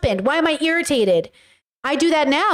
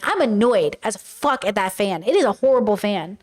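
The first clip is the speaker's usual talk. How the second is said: annoyed, not angry; 3 semitones lower than usual. Acted. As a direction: complain with contained irritation. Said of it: "being annoyed is not being angry".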